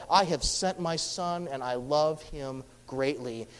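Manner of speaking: a touch of loving father; tender fatherly voice. Retold or imitated. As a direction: let God's pride sound gentle and quiet. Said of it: "He's making it clear to all".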